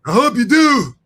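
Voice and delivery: high, loud puppet frog voice; Kermit the Frog voice. Retold or imitated. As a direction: squeak it out like Kermit. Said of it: "it's Kermit the Frog's voice".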